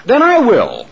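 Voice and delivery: high, loud resolve; a plucky hen stepping up; determined hen. A narrator's reading. Preacher as the hen, high loud resolve. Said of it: "said the little red hen".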